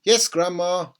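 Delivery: put-on dutiful small boy answering; little boy's voice. A narrator's reading. George answers grandma.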